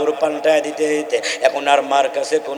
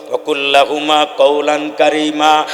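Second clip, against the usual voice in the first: Quran recitation; slower than usual. Acted. Quoted verse recited.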